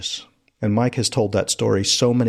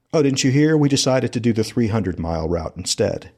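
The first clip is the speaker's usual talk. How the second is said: retold friend's reply; 3 semitones higher than usual. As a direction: imitate a friend casually breaking news, pitched up at first. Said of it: "one of his friends says something like".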